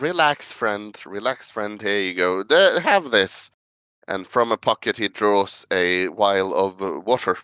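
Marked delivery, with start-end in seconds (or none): 0.0-3.5 calming words. Acted. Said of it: "Here, calm down".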